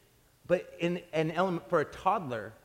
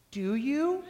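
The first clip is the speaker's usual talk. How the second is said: put-on laughing child's question; 8 semitones higher than usual. Child asks, teller laughing.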